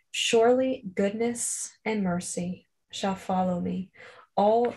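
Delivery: slow devotional psalm reading; slow scripture reading. Shown as a demonstration. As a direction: let each verse settle before the next. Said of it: "I'm just gonna read it slowly".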